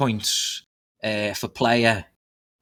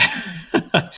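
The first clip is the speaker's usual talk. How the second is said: short, winded chuckle; quick airy laugh; breathy laugh. Real, not acted. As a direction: laugh while catching your breath.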